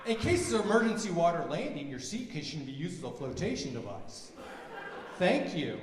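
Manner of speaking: a hint of a cabin announcement; flight attendant announcement. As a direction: drone it like the safety spiel.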